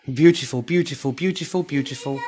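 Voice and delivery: delighted. Real, not acted. Admiring Christmas tree.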